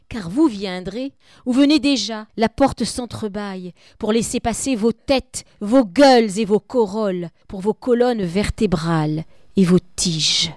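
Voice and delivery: solemn reading of a poem. Acted. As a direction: read it like death itself addressing you. Teacher reads death's lines.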